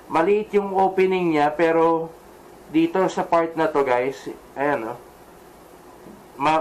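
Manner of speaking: muffled behind chin bar; speaking inside full-face helmet. Real, not acted. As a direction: voice enclosed by helmet. Seen 4: Helmet worn throughout, chin bar covers mouth; reference frames bare-headed.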